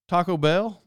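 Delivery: "Bell" lifted as the second word; stress on Bell. Shown as a demonstration. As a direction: put the up on "Bell". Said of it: "that second word".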